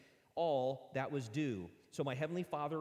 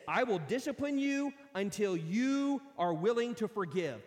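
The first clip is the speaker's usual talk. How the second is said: stern master; 6 semitones higher, 7 dB louder than usual. Acted. Master's stern verdict voiced.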